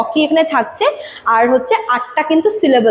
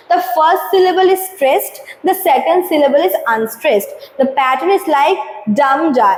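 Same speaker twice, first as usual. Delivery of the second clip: slow, deliberate textbook read-out; slow reading aloud; much slower than usual. Acted. Teacher reading the definition to students, slow and deliberate. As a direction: read the definition slowly for the class. Reads textbook line slowly.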